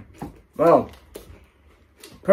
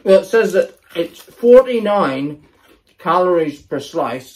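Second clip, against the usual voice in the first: talking through a mouthful of crispbread; words round a bite, mouth full; 3 dB louder than usual. Real, not acted. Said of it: "Sorry for speaking with my mouth in full".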